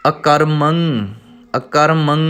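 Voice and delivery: ਅਕਰਮੰ ending in a clear nasal ng; ਅਕਰਮੰ with the m carrying the nasal; correct pronunciation. Shown as a demonstration. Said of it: "ਥੋੜ੍ਹੇ ਅਭਿਆਸ ਦੀ ਲੋੜ ਹੁੰਦੀ ਹੈ".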